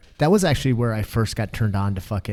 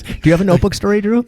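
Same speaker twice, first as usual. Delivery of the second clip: mock host question; 10 semitones higher, 7 dB louder, faster than usual. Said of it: "that's our big thing is".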